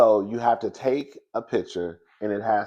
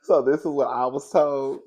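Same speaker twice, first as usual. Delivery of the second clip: excited shout; 2 semitones higher, 3 dB louder than usual. Real, not acted. Hyped opener before laughing fit.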